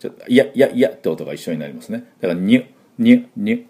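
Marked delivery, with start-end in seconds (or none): 2.2-3.6 ニュ repeated quickly, n blended with the y glide; nyu sound. Shown as a demonstration. Teacher drilling n and y merged, quick. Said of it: "ニュって音になります".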